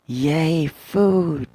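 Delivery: put-on high, loud childlike cheer; excited cheer. Child cheering at the food, high and loud. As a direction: squeal it like a hungry kid.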